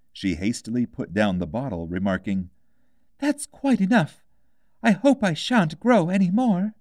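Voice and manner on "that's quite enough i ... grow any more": put-on high, light girl's voice, wistful; a young girl missing her cat; Alice, wistful. A narrator's reading. Alice alarmed.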